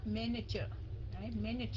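"Manager" with first-syllable stress, pitch kept down; stress not too high. Shown as a demonstration. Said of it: "đừng có để cao quá".

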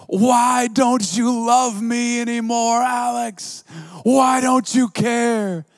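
high, loud, wailing plea; imitating a sobbing yell. Young woman pleading with Alex, high sobbing yell. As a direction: wail it like a heartbroken young woman. Preacher voices heartbroken woman.

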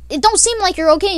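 mock concerned friends. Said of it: "we're like".

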